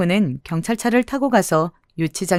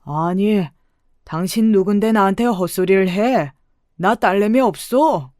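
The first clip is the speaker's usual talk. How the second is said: put-on mildly irritated old man's retort; annoyed old man. Swindler to a stranger claiming him as father, mildly annoyed. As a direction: grumble in mild annoyance. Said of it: "미간을 찌푸리면서 물었습니다".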